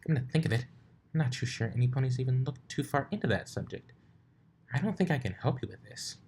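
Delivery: a hint of a flustered librarian pony; brisk bookish unicorn, lightly done; Twilight voice. Twilight voiced in fanfic reading.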